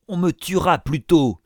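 high, desperate protest; howled. A narrator's reading. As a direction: cry out in defiant panic. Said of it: "hurla Isaac Acabut".

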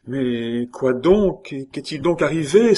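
high, rising emotional outcry; urgent, moved exclamation; distressed cry. A narrator's reading. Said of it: "s'écria Jeanne, émue".

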